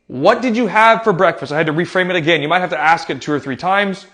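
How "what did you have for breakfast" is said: slow, careful question; patient, measured asking; calm and careful. Acted. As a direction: ask it slowly and clearly, a little raised in pitch. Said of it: "calmly and carefully".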